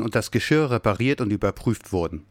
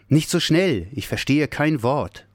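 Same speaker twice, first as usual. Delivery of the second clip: firm stop; 5 semitones higher than usual. Acted. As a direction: cut in and stop him. Bear stops the babble.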